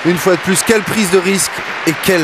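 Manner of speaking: high, excited play-by-play burst; rising fired-up call of the shot; wrestling commentator. Real, not acted. Repeat after a stunning return.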